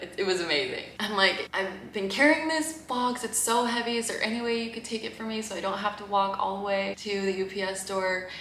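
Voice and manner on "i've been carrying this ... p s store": pleading. Retold or imitated. Pleading with the courier.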